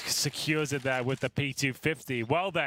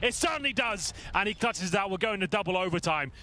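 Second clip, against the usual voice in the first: esports caster; 4 semitones higher than usual. Real, not acted. Clutch round, live commentary.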